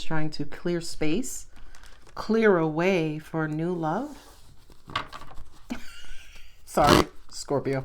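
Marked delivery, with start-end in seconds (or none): 4.9-6.5 soft stifled laugh; real, quiet chuckle. Real, not acted. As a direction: laugh quietly under your breath. Laughs before apologising to Scorpio.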